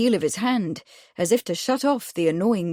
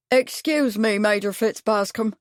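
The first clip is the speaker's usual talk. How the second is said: tentative barman; 3 semitones higher than usual. Acted. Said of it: "said the barman tentatively".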